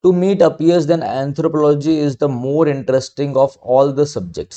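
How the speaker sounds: very slow, word-by-word read of an example sentence; slow dictation reading. Shown as a demonstration. Teacher reading an exercise sentence to students, slow and deliberate. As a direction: read it out slowly for students to follow.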